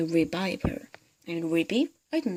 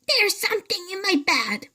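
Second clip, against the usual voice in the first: put-on much higher, frantic old woman voice; panicked hag; 12 semitones higher than usual. Mrs Twit terrified of the thing in her bed. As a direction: cry out in alarm.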